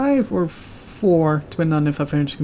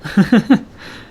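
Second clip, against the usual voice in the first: laugh; 6 semitones higher, 6 dB louder than usual. Real, not acted. Laughing about being personable.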